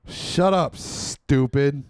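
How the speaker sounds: a loud, mock-rude dismissal; retold drunken retort. Drunk girlfriend's retort, re-enacted.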